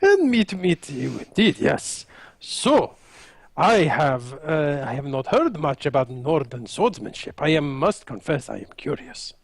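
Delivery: lightly voiced formal fighter, curious; a touch of courtly politeness, pitch settling as it goes; courteous Raphael. Raphael answers in character.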